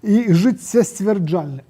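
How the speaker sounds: slow, syllable by syllable; slow careful word. Shown as a demonstration. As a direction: spell out the long word aloud. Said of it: "я іх проста скажу". (павольна, па складах)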